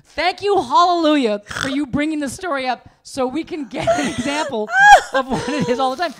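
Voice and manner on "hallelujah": ordinary delivery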